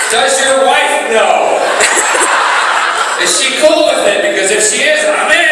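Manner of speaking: mock flirt. Flirty joking reply to fan.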